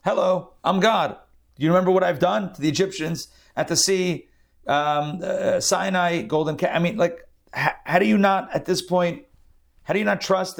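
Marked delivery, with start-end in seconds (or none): 0.0-6.7 high, incredulous mock exasperation; exasperated God. God scolds doubting Israelites, high incredulous exasperation. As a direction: play God rolling his eyes at his people. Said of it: "And God's like".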